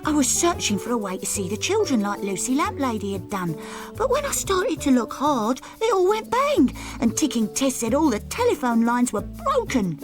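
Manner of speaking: fast, tumbling excited account; gabbled excited story. Acted. Naughty Nick blurting the news to Hairy Hat Man, fast and excited. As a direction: pour it all out in a rush.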